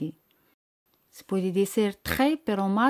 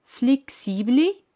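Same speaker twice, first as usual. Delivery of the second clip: Flexible said slowly and clearly; slow vocabulary demo; 3 semitones higher, slower than usual. Shown as a demonstration. Teacher introduces the next French word slowly. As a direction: draw out Flexible slowly for learners. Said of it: "Veamos otra palabra".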